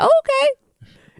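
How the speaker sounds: drawn-out high okay in her voice; slowly, sweetly imitating the roommate; shy roommate agreeing to come out; high slow mock roommate voice. Roommate voiced in retold story.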